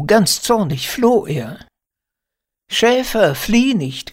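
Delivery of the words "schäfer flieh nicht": high, louder plea after someone; calling out. A narrator's reading. Shepherdess calls after her fleeing shepherd, calling out. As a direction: cry out pleadingly, pitched high. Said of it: "rief ich".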